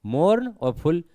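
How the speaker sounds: "मोर्न" and "फुल" said as separate units; split in two. Shown as a demonstration. Teacher marking the syllable break, "मोर्न" and "फुल" said apart. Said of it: "यहाँ से टूट जाएगा ये".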